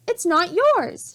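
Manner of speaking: put-on girl's loud protest, a little slow; shouting. A narrator's reading. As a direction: defend the medallion boldly. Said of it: "shouted Annie".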